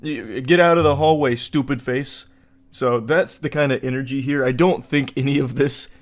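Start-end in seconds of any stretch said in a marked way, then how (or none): 0.4-2.3 loud mocking bully taunt; cartoon bully. Bully yelling at a kid in the hallway, mock taunt. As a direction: shove him into the locker, louder. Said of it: "douchey bully ... saying".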